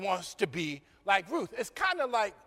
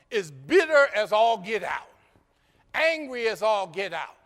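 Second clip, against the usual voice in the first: louder preaching build; rising preaching; 2 semitones higher, 4 dB louder than usual. Real, not acted. Preacher stresses Naomi's bitterness to the congregation, louder build. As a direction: press the point, getting louder. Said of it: "preacher builds on Naomi's anger".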